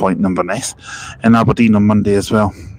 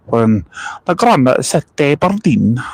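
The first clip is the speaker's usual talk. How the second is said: self-mocking Aberdeen accent, a bit slower; bad Aberdeen accent. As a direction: do a deliberately poor Aberdeen accent. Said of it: "that is a terrible Aberdeen accent".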